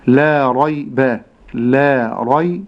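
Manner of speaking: لا ريب read slowly; slow recitation. Shown as a demonstration. Sheikh models لا ريب slowly for students. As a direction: draw out لا ريب. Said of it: "زمنه".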